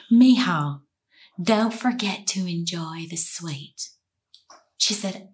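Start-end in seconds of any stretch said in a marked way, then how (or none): 0.1-3.9 tender aunt's voice. Retold or imitated. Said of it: "Just the way she said, it's so cute".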